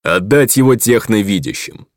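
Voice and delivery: commanding alien lord order; vast deep cosmic voice. A narrator's reading. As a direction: bark the order to guards. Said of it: "приказал он страже". (приказ громоподобным голосом)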